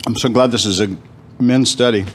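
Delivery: talking with food in his mouth; mouth full. Real, not acted. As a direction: speak through a mouthful of pizza. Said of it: "I'm talking with food in my mouth".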